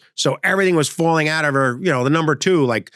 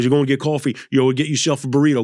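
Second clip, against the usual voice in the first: a famous singer's voice; faster than usual. Retold or imitated. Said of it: "He goes".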